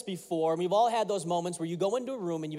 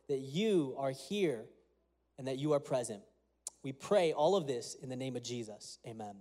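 prayer. Acted. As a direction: pray it sincerely to the Father. Opening prayer before sermon.

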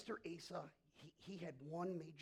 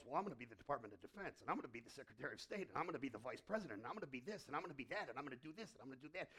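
fast mock bragging, lower voice; boastful disciple; 3 semitones lower, much faster than usual. Disciple claiming positions before dinner, fast mock boasting. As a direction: rattle off titles like a greedy disciple.

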